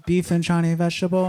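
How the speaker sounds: lightly put-on Chinese accent; mock Chinese accent. Apologetic customer repeating his order, mock Chinese accent. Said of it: "it just comes out that way".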